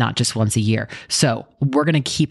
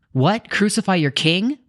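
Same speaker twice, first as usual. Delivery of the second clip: higher, disbelieving question; incredulous; 7 semitones higher than usual. Acted. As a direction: ask it in shocked disbelief. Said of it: "Pilate asked".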